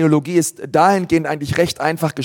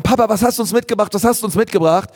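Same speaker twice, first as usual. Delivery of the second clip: put-on excited kids; 4 semitones higher, faster than usual. Kids rush to dad at door.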